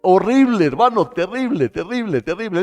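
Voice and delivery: horrified outburst. Acted. Preacher in Adam's skin, crying out in horror. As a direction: feel Adam's horror out loud. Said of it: "yo me pongo ahí, en el pellejo".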